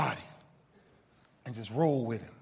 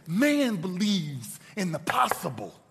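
slow solemn; slower than usual. Retold or imitated. Solemn quoted motto, slowed.

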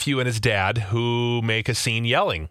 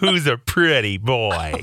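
put-on baby voice; 3 dB louder, slower than usual. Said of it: "talks in a baby voice".

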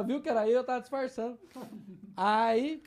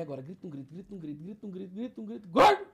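building to a shout. Retold or imitated. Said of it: "Aí eu falei".

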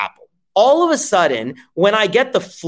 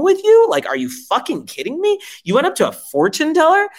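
put-on incredulous kid. Kid mocking parent's doctor story.

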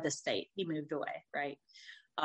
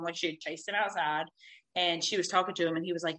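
ordinary talk, nothing marked

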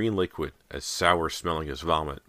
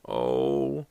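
disgusted moan; 3 semitones lower than usual. A narrator's reading. Disgusted moan in slimy goo.

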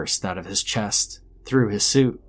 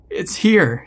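put-on high, raised voice of a frightened girl; alarmed kid; 9 semitones higher, 5 dB louder than usual. A narrator's reading. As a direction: gasp out a warning, pitched high. Waking kid speaks in terror.

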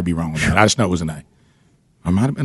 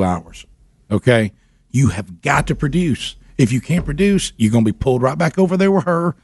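mock angry lecture; 4 semitones higher than usual. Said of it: "and then I got mad".

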